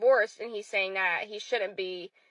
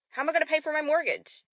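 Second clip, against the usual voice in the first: repeated higher in exasperation; mortgage panic, pitched up; exasperated; 6 semitones higher, faster than usual. Real, not acted. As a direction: throw the question up higher, fed up. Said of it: "I'm just so pissed".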